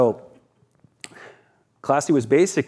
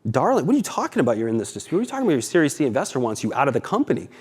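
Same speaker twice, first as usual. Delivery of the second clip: incredulous investor; 3 semitones higher, faster than usual. Retold or imitated. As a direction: play the baffled investor in disbelief. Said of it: "they're like".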